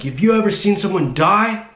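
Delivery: high-pitched mock yell, rising at the end; retold yelling. Imitating the driver pressing his question, high mock yell. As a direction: imitate a yelled challenge without full volume. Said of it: "he's yelling at me".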